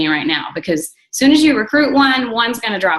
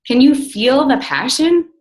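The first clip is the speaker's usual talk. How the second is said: passionate; 4 semitones higher than usual. Real, not acted. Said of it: "can you guys hear the excitement in my voice".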